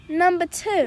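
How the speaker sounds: imitated New York accent. Friend answering theater roll call, New York accent. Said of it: "a New York accent".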